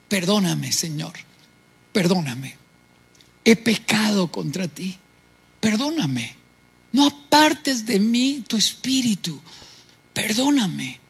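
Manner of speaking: low, soft pleading; penitent plea. Retold or imitated. Preacher reading King David's repentant prayer, softly and low. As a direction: beg for forgiveness humbly.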